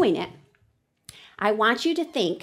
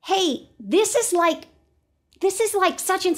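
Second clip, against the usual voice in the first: thinking voice; 7 semitones higher, slower than usual. Acted. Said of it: "It's like".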